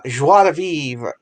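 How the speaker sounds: slow, drawn-out French phrase; French pronunciation. Real, not acted. Host reaching for a word while explaining recording, French pronunciation. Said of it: "Why am I going French?".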